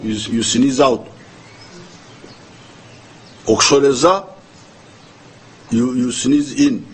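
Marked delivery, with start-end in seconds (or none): 3.5-4.3 Okushoreza said carefully in Runyankore with a rising end; Runyankore word. Shown as a demonstration. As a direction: present Okushoreza as a native Runyankore term, rising. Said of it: "'Cause the Nyankore".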